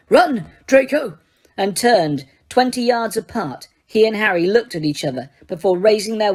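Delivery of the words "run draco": slow, high shouted order; Snape's shout. Acted. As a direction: bark the order at Draco, slowly. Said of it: "Snape shouted".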